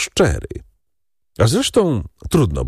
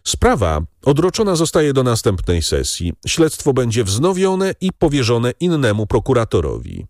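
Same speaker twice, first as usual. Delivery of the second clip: courtroom ruling, pitched higher; formal announcement; 4 semitones higher than usual. A narrator's reading. Presiding judge adjourning the case, formal announcement. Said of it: "oznajmił przewodniczący".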